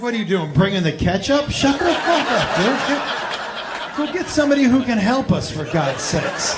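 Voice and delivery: exasperated rant. Retold or imitated. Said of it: "I was like".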